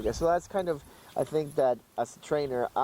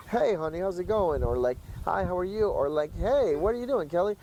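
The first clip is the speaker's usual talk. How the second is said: everyday chatty voice; 5 semitones higher than usual. Retold or imitated. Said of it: "listening to that voice all day".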